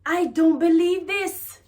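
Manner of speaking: high and slow, "I don't believe this" in disbelief; incredulous. Shown as a demonstration. Teacher acts out an incredulous reaction. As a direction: drag it out in pure disbelief. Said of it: "in an incredulous tone".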